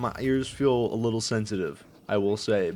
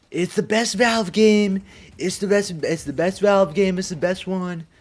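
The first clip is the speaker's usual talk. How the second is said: excited; 9 semitones higher, 5 dB louder than usual. Real, not acted. Hyping his favorite game.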